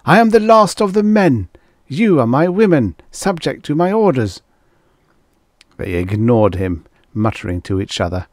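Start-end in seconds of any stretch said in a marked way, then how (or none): 0.1-4.4 high, loud declaration of authority; commanding cry. A narrator's reading. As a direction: cry it out to assert your command. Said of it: "cried Finn".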